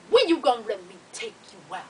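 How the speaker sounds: low, put-on flirty man's voice; flirting man. Strange man flirts with the triage lady, low put-on voice. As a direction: imitate a man's low come-on.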